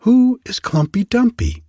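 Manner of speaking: high, squeaky mouse voice; little mouse voice. Acted. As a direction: squeak it like a tiny curious mouse. Little mice ask a question.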